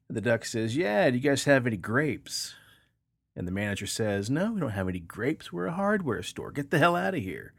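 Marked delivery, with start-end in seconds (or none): 0.7-2.5 higher, a little louder duck voice; a hint of a cartoon duck. 4.3-7.5 annoyed manager. Acted. Joke, manager gets annoyed.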